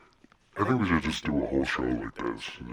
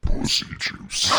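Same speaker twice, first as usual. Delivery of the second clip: deep voice effect; 4 dB louder, slower than usual. Shown as a demonstration. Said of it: "how low my voice can go".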